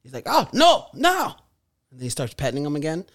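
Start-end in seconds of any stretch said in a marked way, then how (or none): 0.3-1.3 high-pitched imitated scolding; mock chiding. Imitating man with growling lion, mock chiding. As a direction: chide the lion in a put-on high voice.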